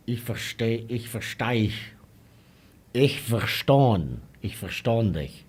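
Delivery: mock Southern Dutch dialect with halting repeats; imitated Dutch-show dialect. Mocking what a Dutch show would get, halting dialect imitation. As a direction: mimic stumbling through Southern Dutch dialect. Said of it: "All you'll get is".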